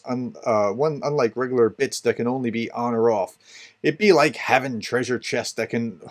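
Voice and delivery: lightly voiced hearty pirate. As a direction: ham it up like a pirate. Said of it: "So it's gonna talk like a pirate now".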